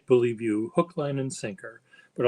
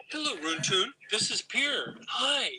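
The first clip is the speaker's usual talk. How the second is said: high but softer sing-song hello; hushed, higher put-on hello, final hi pitched way up; softer demo greeting; 9 semitones higher, 5 dB quieter than usual. Shown as a demonstration. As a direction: coax it gently for the camera. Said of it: "See, this is what you do".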